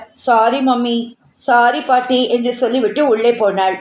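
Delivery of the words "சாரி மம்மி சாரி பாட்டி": mild sulky apology; a chastened child mumbling sorry. Acted. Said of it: "முகம் கூம்ப".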